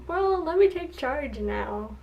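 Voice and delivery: lightly voiced pompous prince stepping up; mock take-charge prince. Vlogger imitating the prince taking charge, a touch grand. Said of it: "popped out of nowhere and was like".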